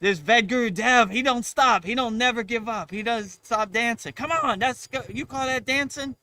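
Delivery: high, loud complaining voice; voice of fear. Pretend. Voicing fear itself.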